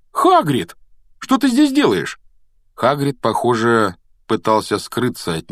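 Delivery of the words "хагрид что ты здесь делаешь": high, surprised call to a friend; sudden loud exclamation. A narrator's reading. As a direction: cry out in sudden surprise, pitch soaring. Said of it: "Рон неожиданно громко воскликнул".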